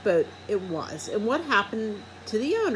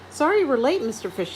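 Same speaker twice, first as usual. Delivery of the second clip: teacher greeting; 6 semitones higher, 5 dB louder than usual. A narrator's reading. Teacher voiced in story.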